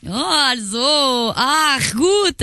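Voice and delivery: high, drawn-out swooning German words; mock sultry moan. Woman egging on caller's German accent, high moaning swoon. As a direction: swoon over every word, very slowly.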